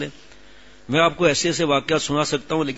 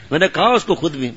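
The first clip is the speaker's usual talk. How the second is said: laughing; 3 semitones higher, 5 dB louder than usual. Real, not acted. Preacher laughs while retelling.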